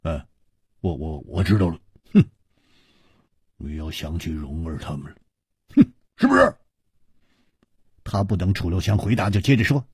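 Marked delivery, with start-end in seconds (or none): 0.0-6.6 knowing, stammered tease with little snorts; smiling tease. A narrator's reading. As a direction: needle a friend playfully. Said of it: "笑着说".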